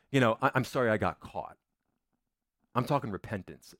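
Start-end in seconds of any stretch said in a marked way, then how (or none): 0.4-1.6 mock apology in an everyday voice; shallow remorse. Shown as a demonstration. Preacher shows the congregation mere remorse at getting caught, shallow apology. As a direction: toss off an apology with no weight. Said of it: "Rem-, remorse is".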